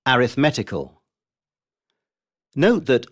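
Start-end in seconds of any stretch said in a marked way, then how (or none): 0.1-1.0 arithmetical as a-rith-MET-i-cal; shifted stress. Shown as a demonstration. Teacher showing the shift, arithmetical stressed on MET. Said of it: "word stress does not stay on the same".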